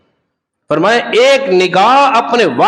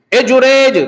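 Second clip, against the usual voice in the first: a mother's call, raised a touch; 3 semitones higher, slower than usual. Acted. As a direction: call out to the son. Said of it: "اس کی ماں نے اسے آواز دی".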